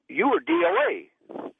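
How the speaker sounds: high, slow, astonished; stunned disbelief. Retold or imitated. Doctor telling the revived patient he was dead on arrival, high and astonished. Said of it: "And he said".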